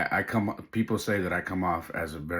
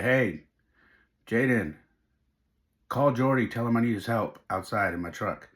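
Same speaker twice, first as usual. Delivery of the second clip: raised, higher call to his son; 3 semitones higher, 3 dB louder than usual. Retold or imitated. Dad signalling his son outside, calling out. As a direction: call out the cue, easing at the end.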